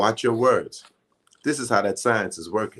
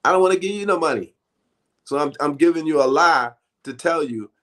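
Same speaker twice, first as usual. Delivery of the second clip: higher, fast mock voice of a stingy relative; stingy inner voice; 5 semitones higher than usual. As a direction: play the tightwad admitting what he really means. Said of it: "What they mean is".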